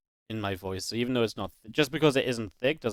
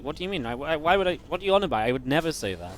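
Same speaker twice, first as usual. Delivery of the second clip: retold disbelief, higher at the start; baffled protest; 3 semitones higher, faster than usual. Streamer retells denying it to flatmates, baffled protest.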